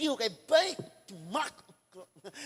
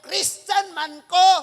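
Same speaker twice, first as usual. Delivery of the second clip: smug claim; 3 semitones higher, 7 dB louder, slower than usual. Retold or imitated. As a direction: drag it out proud and loud. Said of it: "Daghang mga anak, mayong ko".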